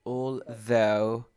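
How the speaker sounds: although split before a buzzed TH. Shown as a demonstration. Teacher models for student, although with voiced TH. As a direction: separate although and vibrate the TH. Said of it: "la T H".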